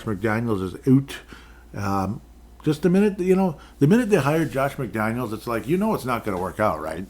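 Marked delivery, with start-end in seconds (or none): 2.6-6.6 exasperated rant. Real, not acted. Ranting about Raiders hiring.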